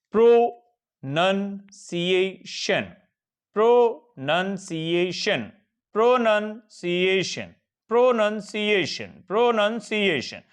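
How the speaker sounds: प्रोनंसिएशन broken into slow separate syllables; syllable-split demo. Shown as a demonstration. Teacher splitting प्रोनंसिएशन into parts for students. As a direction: stretch प्रोनंसिएशन out slowly, piece by piece. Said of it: "हाँ जी, जैसे".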